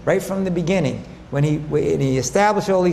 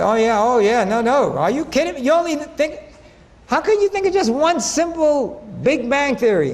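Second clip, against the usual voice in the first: higher, incredulous teasing; to doubting friends, a higher, teasing are-you-kidding; mock disbelief; 4 semitones higher than usual. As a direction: act amazed anyone settles for one bang. Acted reply, mock disbelief.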